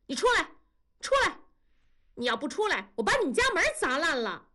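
high-pitched yelling through a door; acted tirade, pitch leaping on the demands; angry girl's shouting. A narrator's reading. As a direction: call him out in a furious girl's voice. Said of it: "女孩子在外面喊了".

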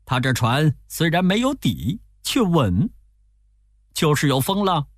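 微微提高的猴王腔; 客气谢过再劝师傅; 孙悟空. A narrator's reading. Narrator voices Wukong. (略高的猴王声音)

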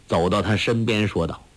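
ordinary delivery

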